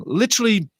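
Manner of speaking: usual speaking voice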